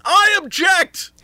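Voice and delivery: high, drawn-out objection; objecting rules lawyer. Pretend. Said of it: "Ian comes in and says".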